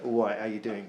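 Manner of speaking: low, soft London geezer greeting; London accent. Shown as a demonstration. Comic showing off the accent he loves, low London accent. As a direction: demonstrate a London accent, dropped in pitch. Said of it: "by the way, the London accent".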